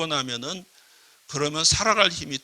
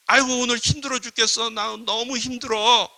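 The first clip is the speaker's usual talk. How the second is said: weary wife complaining; 5 semitones higher than usual. Acted. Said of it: "와이프가".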